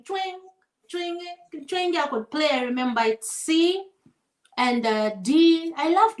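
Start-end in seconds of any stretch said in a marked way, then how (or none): 0.0-2.0 imitated guitar twang. Shown as a demonstration. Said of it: "always strumming".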